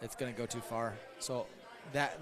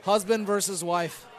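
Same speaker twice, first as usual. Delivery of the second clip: hype announcer; 3 semitones higher, 5 dB louder, slower than usual. Acted. Hyping the match like announcer.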